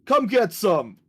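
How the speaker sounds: high, drawn-out taunting holler; yelling out. Acted. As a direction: call out a challenge to someone far off. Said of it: "and I yell out".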